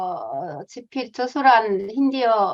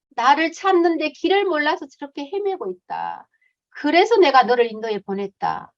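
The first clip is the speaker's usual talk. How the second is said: God's voice; 2 semitones higher than usual. Retold or imitated. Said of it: "하나님 그렇게 말씀하시는 거예요".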